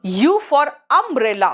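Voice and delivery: umbrella drawn out with a short uh; slow teacher example; very slow demo. Shown as a demonstration. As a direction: slowly sound U for umbrella. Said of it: "अ आया".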